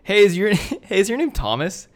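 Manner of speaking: retold greeting. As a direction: hail a stranger, replaying the moment. Acts out approaching a stranger.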